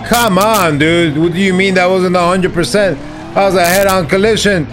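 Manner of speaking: high, indignant complaint; real gamer outrage; angry protest. Real, not acted. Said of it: "getting angrier and angrier".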